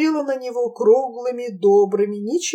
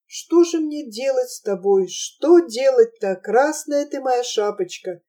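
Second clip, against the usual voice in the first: low sad voice. Acted. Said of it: "грудным печальным голосом проговорила Анфиса".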